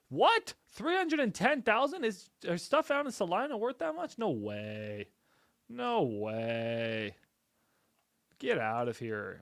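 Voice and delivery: high-pitched, loud disbelief; astonished. Real, not acted. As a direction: squeal in amazement at the numbers. Sees unexpectedly high house value.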